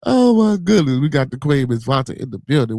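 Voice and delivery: excited welcome. Real, not acted. Host welcoming Queen to the stream, excited. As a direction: hail an honored arrival. Hails a viewer joining the stream.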